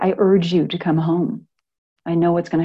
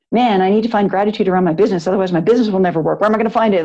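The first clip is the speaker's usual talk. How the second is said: mock anxious self-talk; faster than usual. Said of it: "Like, no, scarcity thinking".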